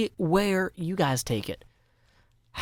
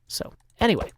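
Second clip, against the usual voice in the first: whisper; 7 semitones higher, faster than usual. Real, not acted. Sudden whispered aside.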